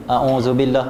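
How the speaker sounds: "A'udzubillah" with a plain z, tongue kept behind the teeth; wrong dh sound. Shown as a demonstration. Teacher showing students how a'udzubillah sounds wrong, plain z. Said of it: "kalau lidah tak keluar, dia akan bunyi macam ni".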